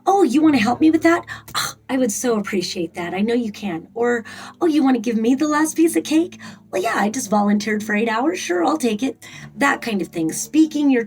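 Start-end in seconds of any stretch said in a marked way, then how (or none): 0.1-3.9 gracious accepting voice. Shown as a demonstration. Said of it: "it sounds like". 4.6-9.3 gracious accepting voice. Shown as a demonstration. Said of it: "it sounds like".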